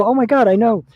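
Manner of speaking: high, loud, thrilled outburst; hammed-up overjoyed realization; ecstatic excitement. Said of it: "he was so excited".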